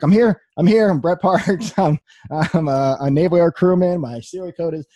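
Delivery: high, loud, urgent rush of words; blurting out his name like a soldier reporting; frantic reporting in. Retold or imitated. Wounded airman blurting his name and rank to the medics, high and frantic. Retold frantic arrival at hospital.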